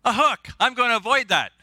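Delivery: high-pitched talking fish, dodging a hook; wary fish. Acted. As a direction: voice a fish spotting danger, pitched well up. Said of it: "and the fish says".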